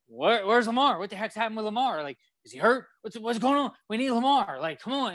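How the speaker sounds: anxious fan calling for his quarterback; flipping out. Retold or imitated. Fan worrying about the injured star, high and panicky. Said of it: "I'm flipping out".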